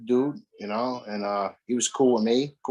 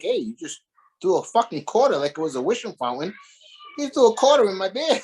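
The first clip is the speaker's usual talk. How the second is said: retold complaint; 6 semitones higher, 4 dB louder than usual. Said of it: "And I'm like".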